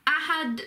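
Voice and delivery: slow "ahad" with the d carried on; lengthened final D. Shown as a demonstration. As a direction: let the d of "ahad" continue a bit longer. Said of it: "the D sort of continues a bit longer".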